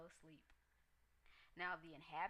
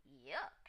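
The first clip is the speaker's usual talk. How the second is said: disgusted yuck; 5 semitones lower than usual. A narrator's reading. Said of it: "she cried".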